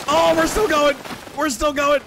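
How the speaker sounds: sledding downhill. Real, not acted. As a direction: shout with thrill mid-ride.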